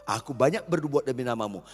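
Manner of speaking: mock crying out. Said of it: "Banyak orang teriak".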